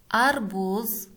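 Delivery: slow word-by-word dictation; one word at a time, long pauses; dictating. Shown as a demonstration. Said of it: "Начинаем с красной строки".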